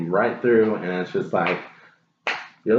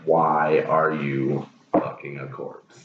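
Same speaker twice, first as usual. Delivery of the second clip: slow, lower, weighing each word; slow heavy question; 5 semitones lower, slower than usual. Real, not acted. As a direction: drag it out in disbelief. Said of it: "God, that is so messed up".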